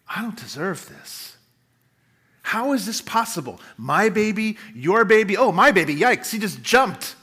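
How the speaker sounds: a light sketch of a humbled, astonished woman; humble Elizabeth. Acted. Preacher acts Elizabeth greeting Mary, lightly humble and amazed. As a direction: marvel aloud, unworthy and thrilled. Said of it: "Can you hear the humble posture in her voice?".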